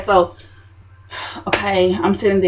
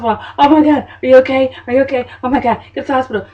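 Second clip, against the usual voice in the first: high, loud worried mother; mama panicking, urging the hospital; panicked mama; 5 semitones higher, 4 dB louder, faster than usual. Retold or imitated. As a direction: rush the worry out fast.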